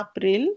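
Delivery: এপ্রিল said as ah-pril; German pronunciation. Shown as a demonstration. Teacher repeats German April for students to copy, model pronunciation. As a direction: open "ah" starting এপ্রিল. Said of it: "এটাকে কেউ কিন্তু এপ্রিল বলবেন না".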